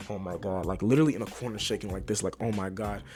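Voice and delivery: a hushed freak-out to herself; panicked inner voice. Retold or imitated. Retelling panicked thoughts while high.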